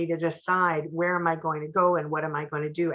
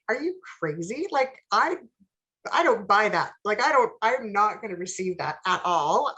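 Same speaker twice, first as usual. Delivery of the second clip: higher-pitched, disbelieving pushback; incredulous retort; 3 semitones higher than usual. Retold or imitated. Retelling her reply to a friend's warning, mildly incredulous. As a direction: retell it as an indignant refusal to believe.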